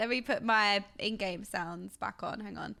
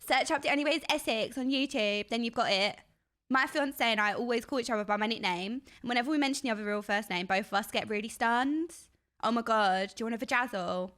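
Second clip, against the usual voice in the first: chatty, put-on thick Essex twang; obnoxious Essex accent. Shown as a demonstration. Streamer demonstrates the accent for chat, obnoxiously Essex. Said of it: "play a really obnoxious Essex accent".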